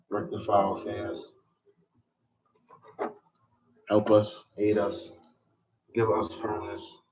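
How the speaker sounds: unhurried, devout supplication; measured dua to end the lesson; closing prayer. Acted.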